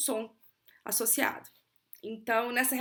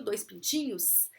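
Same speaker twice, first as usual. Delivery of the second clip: drawn-out teaching voice on "galinhas"; slow plural demo; slower than usual. Shown as a demonstration. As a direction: stretch out "duas galinhas" slowly, leaning on the plural s. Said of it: "por exemplo, plural".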